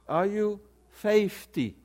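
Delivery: fifty drawn out Southern-style, "FAY-fty"; mock Southern bank lady asking slowly; Southern dialect. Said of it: "I know Southern dialect".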